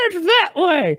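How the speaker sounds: high, slow, loud mock local; retold hill woman. Hill woman pointing lost teens onward, high drawn-out imitation.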